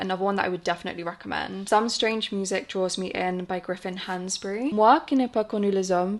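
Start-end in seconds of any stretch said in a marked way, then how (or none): 4.7-6.2 French title said in a French accent; English speaker trying her French accent on the title; French pronunciation. Real, not acted. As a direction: read the French title the French way, a bit self-conscious. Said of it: "Please ignore my French accent".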